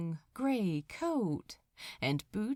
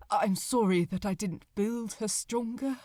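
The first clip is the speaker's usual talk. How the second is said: trembling voice. Acted. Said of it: "his voice trembling, words faltering".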